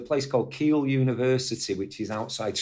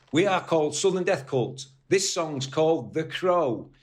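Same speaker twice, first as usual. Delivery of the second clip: broad Northern English with a slight American twang, imitated; broad Northern accent; 4 semitones higher than usual. Singer introducing the band to the crowd, imitated broad Northern accent. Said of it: "in this really broad Northern accent".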